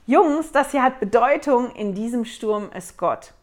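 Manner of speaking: a leader calling to his men over the storm; called out. Retold or imitated. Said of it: "rief er".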